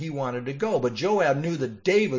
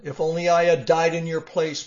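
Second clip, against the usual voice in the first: grieving lament; 4 semitones higher, 4 dB louder than usual. Acted. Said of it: "he cried".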